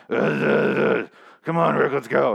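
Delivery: mock gravel-voiced Daryl, half joking; gruff Daryl impression. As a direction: growl it like Pete Holmes doing Batman. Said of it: "Daryl basically sounds like Pete Holmes as Batman".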